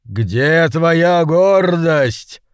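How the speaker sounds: distant booming master; booming demon lord. A narrator's reading. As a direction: thunder the reproach from nowhere. Unseen master scolds.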